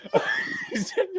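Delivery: high burst of laughter; real laugh. Real, not acted. Laughing again.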